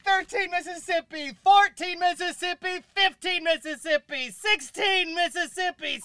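high, slow drawn-out counting; slow evil count. Acted. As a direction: stretch each number out, teasing. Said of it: "Why were you counting like that?".

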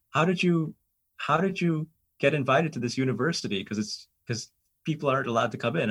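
high, incredulous questioning; mock alarm at the rule-breaker; alarmed disbelief. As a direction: quote the shocked students, pitch up.

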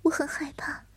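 put-on frightened young man.

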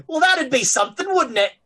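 high villain tone. Acted. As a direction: purr it with smug menace. Villain musing after cackle.

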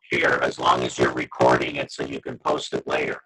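glitchy robotic call distortion; garbled digital robot voice. Real, not acted. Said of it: "They just turned you into a robot".

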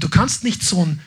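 ordinary delivery

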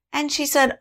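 usual speaking voice

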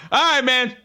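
offhand, easygoing sign-off; casual. Retold or imitated. Groper leaving the alley as if nothing happened, casual. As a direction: imitate a stranger brushing it off casually. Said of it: "as casual as can fucking be".

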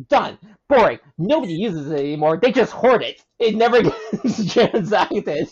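laughing, lightly hammed-up sales pitch; infomercial voice. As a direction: pitch it like a late-night ad. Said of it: "in your best infomercial voice".

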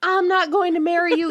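mock haughty. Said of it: "He's like".

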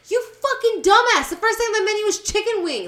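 mock angry retort. Friends retelling fight over the menu, mock angry rant. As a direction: scoff at them, hammed up. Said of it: "And we're like".

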